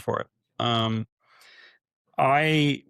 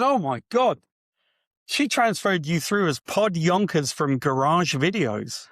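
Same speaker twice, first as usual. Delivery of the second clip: amused disbelief; 5 semitones higher, slower than usual. Retold or imitated. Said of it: "He goes".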